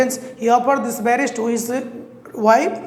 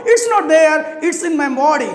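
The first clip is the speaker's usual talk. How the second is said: higher, louder taunt; 4 semitones higher, 4 dB louder than usual. Acted. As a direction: rub it in. Monkey taunts crocodile.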